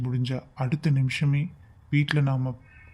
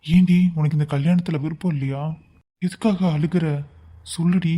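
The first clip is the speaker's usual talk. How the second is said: urgent demand; 2 semitones higher, 3 dB louder than usual. Acted. Asks weeping lover why.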